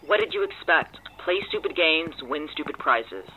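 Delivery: loud, high mocking scold; told-you-so jab. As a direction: rub it in loudly. Scolding friend's reckless move.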